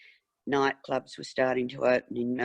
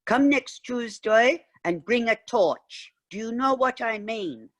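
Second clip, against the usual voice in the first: secretive Mister Zymer; 10 semitones higher, 3 dB louder than usual. Retold or imitated. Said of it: "He'd go".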